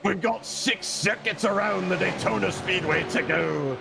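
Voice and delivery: pirate voice. Acted. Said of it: "That was awful".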